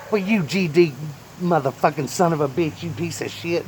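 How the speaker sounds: a fit of cursing at a stuck pan; cussing fit. Retold or imitated. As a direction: spit the curses out at the pan.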